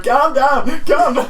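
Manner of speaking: Steve Bleasdale impression. Podcaster mimicking Steve Bleasdale pleading with his players, mild mock plea. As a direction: lightly mimic a harassed football manager. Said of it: "you got Steve Blaze going".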